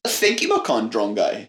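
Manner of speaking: cartoon Australian; bad Australian accent. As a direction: fake Aussie twang. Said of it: "that is not what Australian people sound like".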